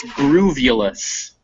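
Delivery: "groovulous" said slowly as GROOV-yuh-lus; slow, careful "groovulous", stress on the first syllable; modeled pronunciation. Shown as a demonstration. Teacher showing students a made-up word, slow careful pronunciation. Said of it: "that word there".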